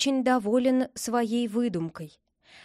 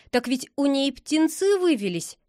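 higher, pleading justification; making excuses; 4 semitones higher, 3 dB louder than usual. A narrator's reading. Friend defending himself about the pigeon, making excuses. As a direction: explain yourself to a cross friend. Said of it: "оправдывался Лёня".

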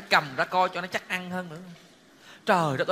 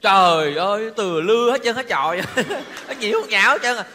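excited; 6 dB louder than usual. Acted. Reacting to messy tamarind.

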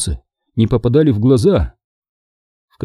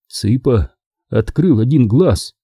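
ordinary delivery

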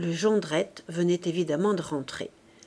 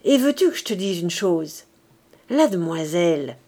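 louder, challenging reveal; a husband springing news on his wife, louder and challenging; exclaimed; 2 semitones lower, 4 dB louder than usual. Acted. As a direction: announce it like a trump card. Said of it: "croisa les bras et s'écria".

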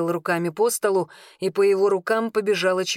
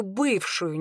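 "бывшую" deliberately picked out by intonation; stress on бывшую. A narrator's reading. Cousin corrects jealous Arvin about Marion, stressing "бывшую". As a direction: lean pointedly on the word "бывшую". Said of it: "я нарочно выделил слово «бывшую» интонацией".

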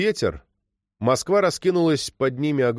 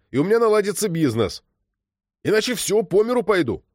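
pitched-up angry tirade; yelling; 8 semitones higher than usual. A narrator's reading. Krylov exploding at the girl over the netsuke, shouting. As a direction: rant at her, outraged and desperate. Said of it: "а потом заорал".

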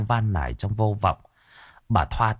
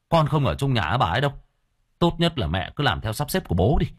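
mildly callous refusal; understated teenage contempt; hardened, dismissive son; 3 semitones lower, faster than usual. Acted. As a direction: coldly brush off your mother. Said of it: "khuôn mặt của nó đanh lại".

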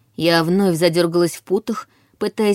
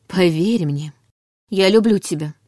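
sincere. A narrator's reading. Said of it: "искренне сказала я".

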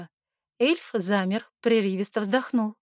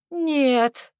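louder, higher cry of woe; mock-tragic louder howl; anguished wail; 5 semitones higher, 5 dB louder than usual. A narrator's reading. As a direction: wail in despair. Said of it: "горестно возопил парень".

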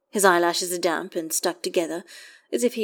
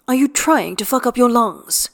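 high, louder scolding question; exasperated scolding; 6 semitones higher, 6 dB louder than usual. Acted. Astarion berates Gale about his lungs, loud exasperated scolding. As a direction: scold him, worried and cross.

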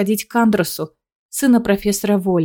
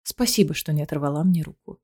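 tender; 5 semitones lower, 6 dB quieter than usual. Acted. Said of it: "он нежно улыбается".

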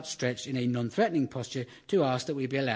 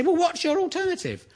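mock smug challenger. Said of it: "They say".

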